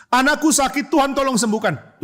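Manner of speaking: high, urgent plea; pleading father. Acted. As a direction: beg for your sick child's healing. Acting the father begging Jesus. (memohon dengan mendesak)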